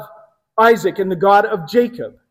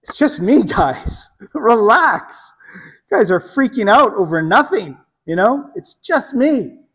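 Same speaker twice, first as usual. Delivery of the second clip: casual brush-off; 3 semitones higher than usual. Pretend. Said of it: "It seems pretty innocuous. Like".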